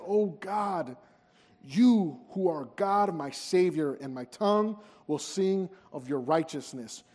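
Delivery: earnest, pleading psalm read aloud; pleading prayer reading. Acted. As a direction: beg God for a clean heart, reverently. Reads rest of the psalm.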